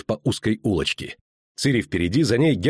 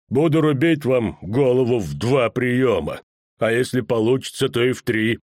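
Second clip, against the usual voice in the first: menacing executioner. Acted. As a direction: lean into the threat, savouring it. Executioner mocking the poet.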